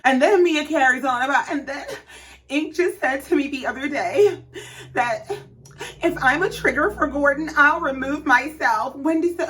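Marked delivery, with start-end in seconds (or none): 1.5-9.0 halting fake-weepy retelling, with gasps; put-on crying with broken pauses; mock tearful. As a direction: imitate someone choking back tears, hammed up. Imitating Mia carrying on tearfully.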